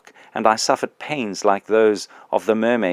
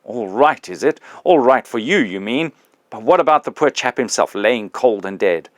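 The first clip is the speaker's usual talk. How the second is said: indignant big ghost; 2 semitones higher than usual. Acted.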